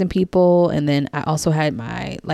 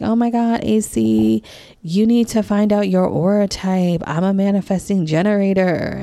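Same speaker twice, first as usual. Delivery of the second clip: higher, bubbly mock spiritual enthusiast; gushing yogi friend; 5 semitones higher than usual. To listener, mimicking vegan friend's aura talk, gushing mock. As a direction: lightly imitate an over-excited friend selling aura types.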